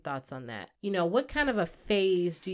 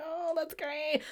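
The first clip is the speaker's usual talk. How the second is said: fake enthusiasm; 7 semitones higher, 9 dB quieter, slower than usual. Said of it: "I gotta be like".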